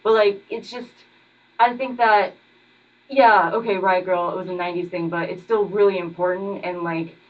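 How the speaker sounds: muffled behind a mask; talking with a mask on; through a face mask. Real, not acted. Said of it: "I'm wearing a mask right now".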